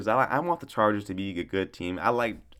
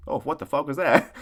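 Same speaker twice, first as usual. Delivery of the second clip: mock startled; 5 semitones higher than usual. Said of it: "on screen and it be like".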